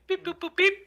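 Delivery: high beeping robot noises. Pretend. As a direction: chirp it like a little robot.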